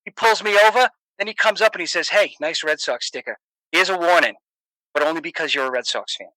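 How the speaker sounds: Boston guy finishing his traffic stop tale; Boston accent. Pretend. Telling the listener how the statie let him off, in a Boston accent. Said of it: "I'll tell you a story in, in a Boston accent".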